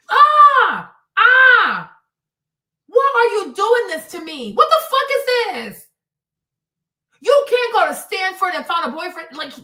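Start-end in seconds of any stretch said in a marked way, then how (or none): 0.1-1.9 two loud, high screams; exasperated scream. Acted. 2.9-5.9 high, loud wail of disbelief; exasperated outburst. Acted.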